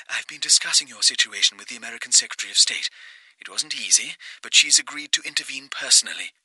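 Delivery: brief him briskly in a distant phone voice; businesslike caller on phone. Acted. March tells Porter air support is coming, composed phone voice.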